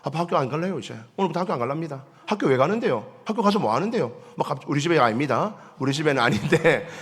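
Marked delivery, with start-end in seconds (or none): 0.0-4.1 put-on sulky teen. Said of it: "갔던 애가".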